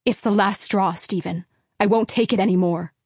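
loud, furious mother's outburst; mother yelling. Acted. Angry mother yelling at her husband in the kitchen. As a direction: hurl it at him, fed up. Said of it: "Mom was yelling".

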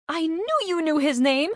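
high, excited outcry; shouted. A narrator's reading. Carney catches her friend knowing the name, shouting. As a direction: cry it out in triumph. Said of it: "Carney shouted".

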